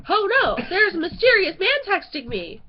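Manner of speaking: loud, high-pitched melodramatic alarm; play-acted dramatic dread; mock alarmed announcement. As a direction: announce it like a hammed-up emergency. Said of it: "So let's play that again".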